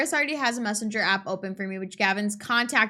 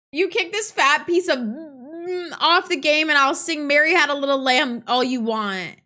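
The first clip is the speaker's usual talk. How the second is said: raised, mildly angry rant; cursing angry customer; 4 semitones higher, 5 dB louder than usual. Acted. Angry customer answering a plea to keep swearing down, mildly irate. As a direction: curse at them in an acted huff. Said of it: "the man curses up a blue streak".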